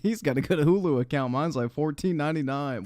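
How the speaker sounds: giggly, quick retelling of the line; laughing repeat. Real, not acted. Streamer repeating the clip's Hulu line, laughing. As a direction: repeat it while still laughing.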